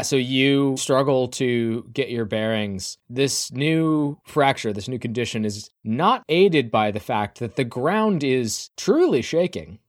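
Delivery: slow, building narration; game master's scene setting. A narrator's reading. Game master describing the shaking ground, building narration. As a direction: build the scene with drawn-out key words.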